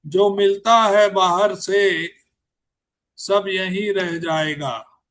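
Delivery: slow, measured recital with pauses between lines; unhurried Hindi poetry reading; poem recitation. Acted. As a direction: let each line land like a verse at a mushaira. Poet recites his poem.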